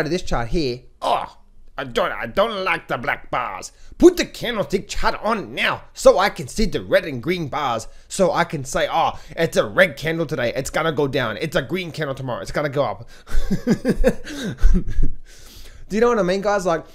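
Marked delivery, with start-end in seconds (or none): 1.0-13.1 lightly voiced whiny trader; a touch of a mocking whine; mock naive trader. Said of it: "mimicking emotional traders". 13.1-15.8 high loud laughter; real loud chuckle. Real, not acted. After mocking traders.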